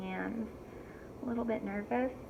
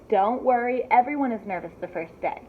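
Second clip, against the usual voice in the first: louder, fast over-the-shoulder reassurance; brisk reassurance; 5 dB louder than usual. Acted. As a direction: toss it back while hurrying. Principal hurrying.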